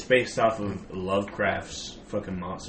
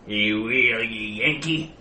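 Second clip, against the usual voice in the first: a garbled, hard-to-follow mock Scottish threat, louder; thick mock Scottish; 5 dB louder, slower than usual. Friend mock-threatens a Yankee in a thick Scottish accent. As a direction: growl it in a thick fake Scots brogue. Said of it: "I didn't hear a word of that".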